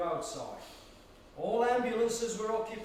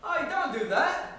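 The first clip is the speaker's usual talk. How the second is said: high, slow scolding with a laugh; 9 semitones higher, 5 dB louder, slower than usual. Acted. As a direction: chide him, half amused. Frank scolds Leon throwing file.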